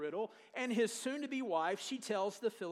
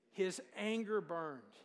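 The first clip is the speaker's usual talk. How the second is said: slow call-and-response; 2 semitones lower, slower than usual. Shown as a demonstration. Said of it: "say these next three words with me".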